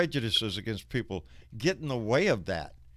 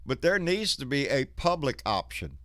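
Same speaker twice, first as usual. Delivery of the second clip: heated; 8 semitones higher than usual. Real, not acted. Heated rant against private insurance.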